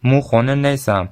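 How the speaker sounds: نیستم as "nesam", خونه with an o; Gilaki pronunciation. Shown as a demonstration. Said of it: "بگید". (تلفظ گیلکی: «مو خونه نیستم» به صورت «مو خُنه نِسَم»)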